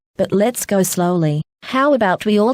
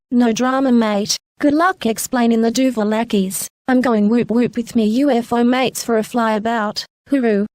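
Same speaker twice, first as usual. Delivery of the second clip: breezy Aussie sign-off, slightly higher voice; Australian accent; 4 semitones higher than usual. Acted. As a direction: toss off a farewell in broad Aussie. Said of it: "Just goes native sometimes".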